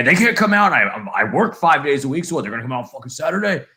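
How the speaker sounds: imitated angry rant, starting high then speeding up; mad dad. Son retelling dad's Geek Squad gripe, mock mad. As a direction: play an exasperated dad, rushing the last part. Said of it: "he's getting really mad".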